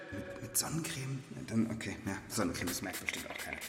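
fast whispered aside; whispering. Real, not acted. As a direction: mutter it as a secret confession. Aside about sunscreen. (geflüstert)

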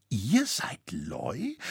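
slow, wondering question; still astonished. A narrator's reading. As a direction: asks again, still stunned by the name. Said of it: "von seinem Erstaunen noch immer nicht erholen".

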